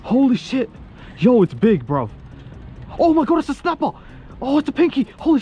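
high-pitched thrilled yelps at a big catch; shrieking with real joy over the fish; excited yelling. Real, not acted. Angler landing a big fish, thrilled high yells. Big snapper hooked on line.

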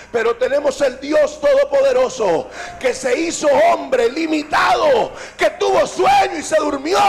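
loud, emphatic sermon delivery; impassioned pulpit voice; fervent preaching. Acted. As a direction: preach it out with force. Preaches at full force.

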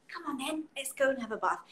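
a lightly voiced coaxing parent; talking to a baby. Shown as a demonstration. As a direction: gently coax a baby to the bath. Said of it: "so say".

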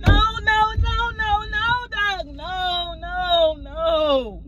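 rising desperate no, no, no; distraught. Pretend. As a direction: plead with the doctor in disbelief. Fake bad news on phone.

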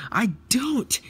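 high, loud squabbling shout; indignant denial. Acted. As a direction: deny it loudly in a high voice. Quarrel, Luke denies it.

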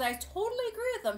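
mock pageant voice. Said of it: "she goes".

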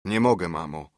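plain reading voice

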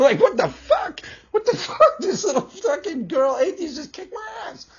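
usual speaking voice

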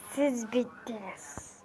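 low, hushed, very slow threat; menacing vow. Acted. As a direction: promise doom softly and slowly. Vows revenge.

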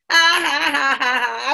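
loud stagey "ha ha" laugh; joking laughter. A narrator's reading. Kojo laughing at the joke he played, gleeful. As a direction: laugh off your own prank. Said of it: "I was just joking".

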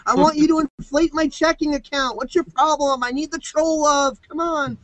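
mock whining plea. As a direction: pretend to beg the trolls for attention. Mock begging trolls.

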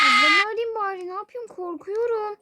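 loud, high frightened call; scared loud outburst; panicked shout. Real, not acted. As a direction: blurt it out in panic. Panicking, wants to call sister.

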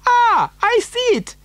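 very high, delighted exclamation; excited cry. A narrator's reading. Factory owner spotting Charlie's cottage, excited cry. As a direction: leap up in pitch on spotting it. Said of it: "cried Mister Wonka".

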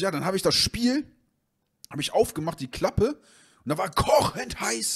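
high, sheepish voice of the buddy; nervous friend. Retold or imitated. Friend telling the owner about the broken game, high and flustered.

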